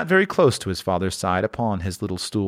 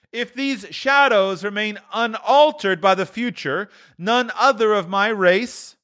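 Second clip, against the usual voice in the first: the ghost; 12 semitones higher than usual. A narrator's reading. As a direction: turn Scrooge's words back on him. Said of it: "returned the ghost".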